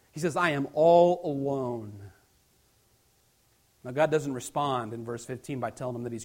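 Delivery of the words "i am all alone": forlorn complaint. Acted. Acted despairing complaint of Elijah.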